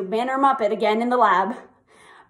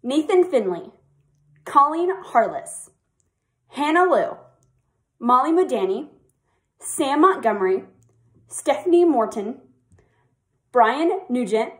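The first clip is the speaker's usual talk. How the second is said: name announcer. Acted. Staffer announces each senior's name at the mock graduation, ceremonial.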